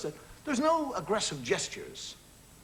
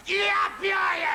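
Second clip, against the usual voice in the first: mock shouted yeah; 7 semitones higher, 5 dB louder, much slower than usual. Acted driver gesture reply.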